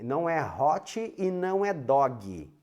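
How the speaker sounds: "hot" as hotchy and "dog" as doggy; mock Brazilian pronunciation. Shown as a demonstration. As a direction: lengthen the wrong added vowels in "hot" and "dog". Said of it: "Isso não existe".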